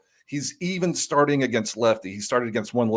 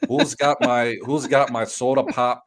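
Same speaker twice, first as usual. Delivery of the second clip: bad Canadian accent. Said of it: "I can try to do a Robbie Canadian accent".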